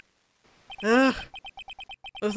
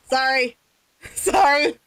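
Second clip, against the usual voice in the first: escalating apology; 8 semitones higher, slower than usual. Acted. Repeated apology getting more frantic.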